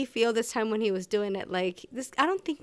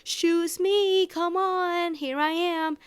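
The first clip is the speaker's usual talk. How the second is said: higher, giddy plea to be noticed; mock breathless "choose me"; eager begging; 9 semitones higher, slower than usual. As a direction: gush like a smitten fan. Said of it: "tune into and be like".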